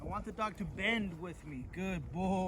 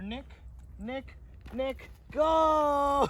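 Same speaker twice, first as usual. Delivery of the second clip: high, loud urging calls to the dog; excited urging; 7 semitones higher, 4 dB louder, much slower than usual. Real, not acted. Trainer excitedly calling the dog back, high and loud. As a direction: cheer the dog into coming back fast.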